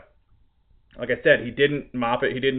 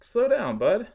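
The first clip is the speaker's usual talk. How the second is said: mocking the boss; 11 semitones higher, 3 dB louder, slower than usual. Mocking the boss's advice.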